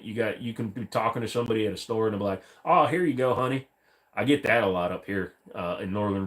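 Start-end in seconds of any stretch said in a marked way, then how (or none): 2.6-3.7 light West Virginia southern twang; West Virginia southern accent. Retold or imitated. Clerk handing change to a customer, mild West Virginia southern accent. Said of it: "the West Virginia style southern accent".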